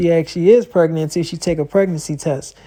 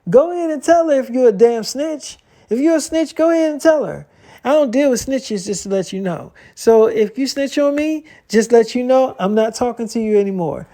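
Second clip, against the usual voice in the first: higher-pitched heated taunt; a hint of a retold argument; mock angry dare; 5 semitones higher than usual. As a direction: push the friend to snitch, voice up high. Acted phone quarrel, daring to snitch.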